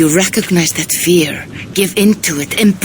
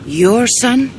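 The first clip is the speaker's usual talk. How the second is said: sharply higher, puzzled question; surprised question; 8 semitones higher than usual. Acted. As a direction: catch on the word in surprise. Valka questions Eivor's son claim.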